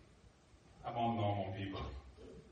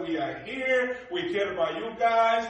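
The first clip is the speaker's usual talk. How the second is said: US officials' promise; 6 semitones higher, 10 dB louder than usual. Retold or imitated. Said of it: "they said".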